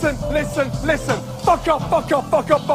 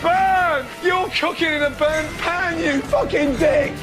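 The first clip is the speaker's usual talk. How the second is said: furious chef; 5 semitones higher, slower than usual. Retold or imitated. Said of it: "you go".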